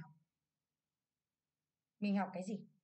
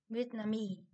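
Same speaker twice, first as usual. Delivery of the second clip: "Vietnamese" stressed on MESE; weight the final syllable of "Vietnamese"; stress on last syllable; 3 dB quieter, slower than usual. Shown as a demonstration. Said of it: "trọng âm rơi vào mi".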